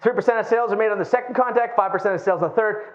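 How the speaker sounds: fast, pushy salesman pitch; lightly voiced slick car salesman; 1970s used car salesman voice. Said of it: "that's my nineteen seventies used car salesman voice".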